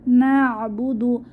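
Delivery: slow recitation, আইন from the throat; tajweed reading; Quran recitation. Shown as a demonstration. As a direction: chant slowly. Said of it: "আইনের মাখরাজ গলার মাঝখান থেকে".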